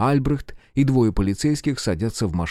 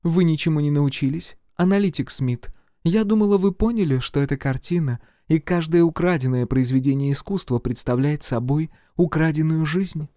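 high reproving female voice; reproachful woman agent; 7 semitones higher than usual. A narrator's reading. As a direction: scold him for missing the point. Agent rebukes Smith.

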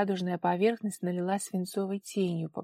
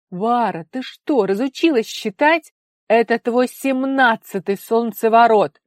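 loud, higher exasperation; exasperated shout; 4 semitones higher, 12 dB louder than usual. A narrator's reading. Father exasperated with his forgetful daughter, loud. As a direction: throw up your hands at her.

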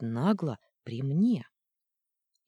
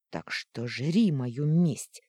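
злобная угроза; 3 dB louder, much slower than usual. Acted.

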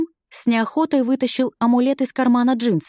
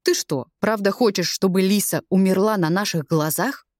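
reproachful drawl; 3 semitones lower than usual. Acted. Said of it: "Осуждающий протянул Чайо".

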